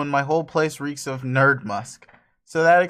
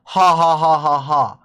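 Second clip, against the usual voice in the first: louder, can't-stop laughter; helpless laughter; 7 dB louder than usual. Acted. Dave conceding his selfies are comedy gold, laughing. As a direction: crack up again. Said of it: "Why can't I stop laughing?".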